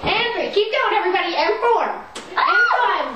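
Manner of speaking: counting reps while jumping; puffing through jumping jacks; doing jumping jacks. Real, not acted. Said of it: "doing jumping jacks in the background".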